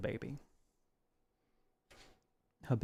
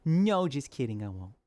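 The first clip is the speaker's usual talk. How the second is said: teasing; 3 semitones higher than usual. Retold or imitated. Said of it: "Teasing the people, saying".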